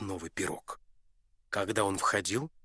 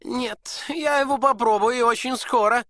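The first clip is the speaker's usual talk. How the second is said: high, loud defiant duke; duke shouting; 10 dB louder than usual. Acted. Duke to the prince, a loud defiant shout. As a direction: insist you will taste it. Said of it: "закричал герцог".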